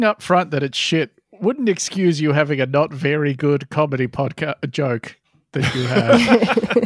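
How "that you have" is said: slow words broken by laughter; cracking up mid-sentence; laughing. Real, not acted. Cracking up at own joke.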